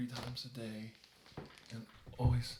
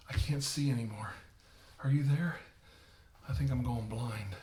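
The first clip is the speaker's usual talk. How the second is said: panicked cry; 3 semitones higher, 6 dB louder than usual. Acted. Bleeding carver calls to his helper in loud panic. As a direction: call out in panic as your sight goes.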